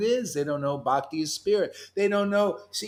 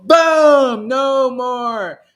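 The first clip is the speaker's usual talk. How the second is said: high, loud shouted boom; yelled boom; 6 semitones higher, 10 dB louder, much slower than usual. Real, not acted. Preacher yells boom to the congregation. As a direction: blast it out like an explosion. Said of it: "Sorry about yelling".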